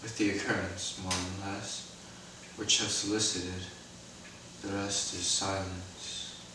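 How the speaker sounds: dying, coughing and fading; bleeding out. Acted. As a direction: let life drain out of each word. Hamlet dies, coughing, fading.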